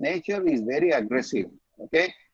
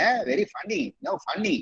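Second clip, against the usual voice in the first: mock squeal; 7 semitones higher, 4 dB quieter than usual. Shown as a demonstration. Teacher mocks childish praise.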